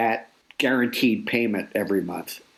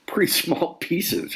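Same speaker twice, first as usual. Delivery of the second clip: laughing; 9 semitones higher, slower than usual. Real, not acted. Guest laughs at small checks.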